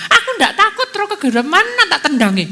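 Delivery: high-pitched bragging little gecko; second talking gecko. Retold or imitated. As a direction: play a gecko boasting it isn't scared. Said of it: "Terus yang satunya".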